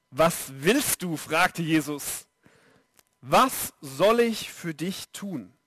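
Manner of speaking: slow, low, gentle question. A narrator's reading. Reading Jesus' question gently.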